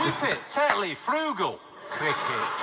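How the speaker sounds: comic list in broad Yorkshire; mock Yorkshire; Yorkshire accent. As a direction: rattle off words as a Yorkshireman. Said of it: "Yorkshire, say what I like".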